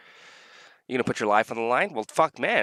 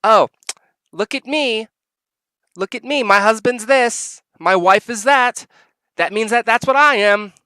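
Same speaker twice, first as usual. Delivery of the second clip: sneering entitled voice, pitched way up; mocking entitled spouse; 7 semitones higher, 6 dB louder than usual. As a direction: parody a spouse demanding everything. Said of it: "to go in and say".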